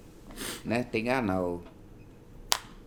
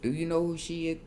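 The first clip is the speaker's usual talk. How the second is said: high-pitched mock scream, held back in volume; retold screaming; 10 semitones higher than usual. Boyfriend screaming while holding her, imitated scream. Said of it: "and he's screaming".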